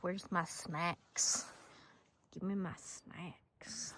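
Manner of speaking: slow, drawn-out hungry cow voice, fading to a whisper; voicing Doug. Owner voicing the calf begging for snacks, slow and drawn out. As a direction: stretch every word like a greedy calf. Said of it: "Doug's like".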